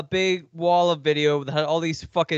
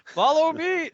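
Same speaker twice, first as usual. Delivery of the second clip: much higher spooky call; high ghostly voice; 10 semitones higher than usual. Pretend. Ghost voice continued.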